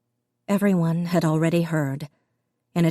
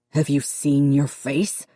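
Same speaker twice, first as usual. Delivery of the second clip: slow, cutting father's snap; snapped; slower than usual. A narrator's reading. Dad snapping at Connor, slow and cutting. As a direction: scold the son sharply. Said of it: "his father snapped".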